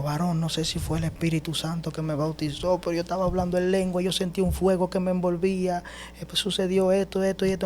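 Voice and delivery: high-pitched, eager rush of explanation; excited phone report. Retold or imitated. Calling a friend after praying in tongues, full of emotion. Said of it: "así en esa emoción".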